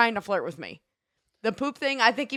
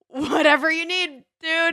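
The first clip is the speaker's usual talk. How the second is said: incredulous reply; 7 semitones higher, 4 dB louder, slower than usual. Retold or imitated. Reply to stranger's poop remark.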